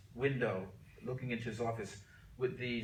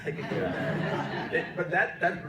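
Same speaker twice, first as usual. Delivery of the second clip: laughing; 7 semitones higher, 8 dB louder, slower than usual. Real, not acted. Laughing at own new title.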